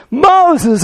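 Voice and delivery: high, disbelieving burst; incredulous Moses. Retold or imitated. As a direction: scoff at the name in disbelief. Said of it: "he said".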